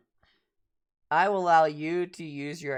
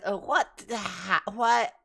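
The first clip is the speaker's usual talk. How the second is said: high, startled little cat voice, lightly voiced; a lightly voiced cat, startled and confused; a hint of a bewildered cat waking up; dazed cat; 5 semitones higher, slower than usual. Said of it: "So the cat looks up at you guys".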